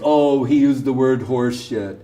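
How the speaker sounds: prissy, scandalized voice with a laugh in it; mocking pearl-clutching tut-tutting; mock indignant critic. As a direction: lampoon the offended critics, fussing over manners. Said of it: "All you can say is".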